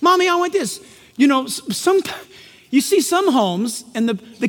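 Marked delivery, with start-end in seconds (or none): 0.0-0.8 a hint of a whiny child, "Mommy" pitched up; lightly voiced demanding kid. Preacher mimicking a demanding child, lightly whiny.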